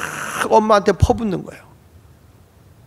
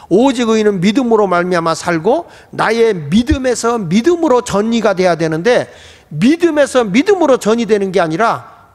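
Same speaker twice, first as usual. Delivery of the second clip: raised, driving sermon delivery; emphatic preaching; 4 semitones higher than usual. Acted. Preacher urging the congregation that faith must be passed on, emphatic preaching. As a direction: press the point home to the congregation.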